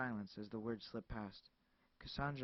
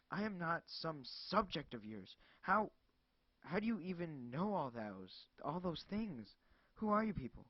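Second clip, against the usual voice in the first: loud, high and slow, spitting each word; frantic shouting; 4 semitones higher, 5 dB louder than usual. Acted. Cassandra yelling at the caller, frantic. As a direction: yell it in desperation.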